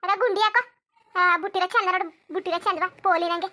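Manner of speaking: mocking her brother's rowdy look, loud; loud teasing. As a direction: call out his flashy look, teasing. Loud teasing of dressed-up man.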